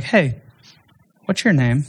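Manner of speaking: easy, unhurried greeting with a pause after the hey; calm, non-anxious. Acted. Jesus walking up to the possessed man, calm and non-anxious. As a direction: ask it gently, casually, without any anxiety. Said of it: "In a calm, non-anxious way".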